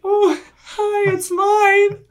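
mock sheepish reply. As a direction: sound caught out and bashful. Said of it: "All, like, sheepishly".

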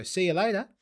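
casual mock Aussie accent; imitated Australian accent. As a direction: imitate an Australian soap character. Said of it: "learned the Australian accent from Home and Away".

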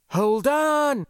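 high, loud call over the channel. A narrator's reading. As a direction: call it out urgently. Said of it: "Mavis called over the open channel".

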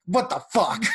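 laughing mock outrage. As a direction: blurt it through a laugh. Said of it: "I'm like".

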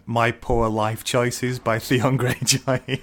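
slow, grand book-title announcement; stretched, mock-portentous title reading; dramatic title read. Shown as a demonstration. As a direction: read it like a solemn memoir title. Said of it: "and it's called".

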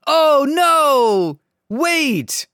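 high, hammed-up dismay; mock alarmed protest. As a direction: cry out like a useless bystander. Acts out ineffectual bystanders' protest.

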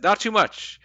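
mock-cocky showman line; cocky quip. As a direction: toss it off with a smug grin. Quoting Spider-Man's cocky line.

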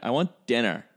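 lightly put-on British kid's voice; a hint of British accent in a child's demand. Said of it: "that's my British accent".

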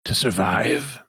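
lofty, lightly voiced villain; Sun Minister De Winton. Villain defending itself against an accusation, lofty and deliberate. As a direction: pose it grandly, pausing midway. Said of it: "This is a tough voice to do".

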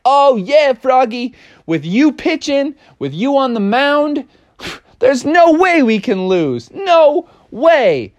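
high, eager cheering voice; excited teammates. Acted. Teammates cheering Froggy on, high and excited. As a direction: pump up the star pitcher.

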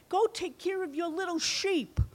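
lightly voiced mocking older brother; scornful big brother. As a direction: brush him off like a kid. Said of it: "his brother was so upset".

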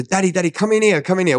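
put-on high, insistent child's call; excited child voice, pitched right up; eager little girl. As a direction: imitate a small daughter beckoning Dad. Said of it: "and then she was".

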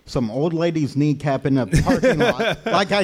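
mock rage, breaking into laughter; a hint of a furious sister, giggling; mock angry sister.

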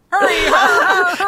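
high shouted curling skip call. Pretend. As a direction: yell it down the ice. Acting out curling calls.

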